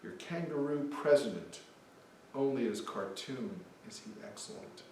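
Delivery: put-on light Australian accent reading the poem; Aussie voice. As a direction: play a mocking Aussie, lightly. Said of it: "An Aussie".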